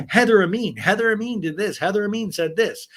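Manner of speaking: high, insistent accusing chant; Tamara. Acted. Flashback of a castmate blaming someone, insistent accusing. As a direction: hammer the repeated name, starting loud. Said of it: "Tamara going".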